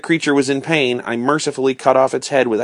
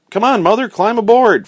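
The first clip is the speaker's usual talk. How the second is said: high, loud, eager call; raised storybook shout of invitation; 10 semitones higher, 5 dB louder than usual. A narrator's reading. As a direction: urge someone aboard. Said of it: "Fritz called".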